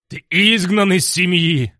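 loud, high furious bark; barking fury. A narrator's reading. Dargon Quint barks banishment at the hero, furious. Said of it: "рявкнул он".

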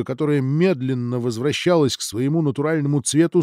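ordinary delivery, nothing marked

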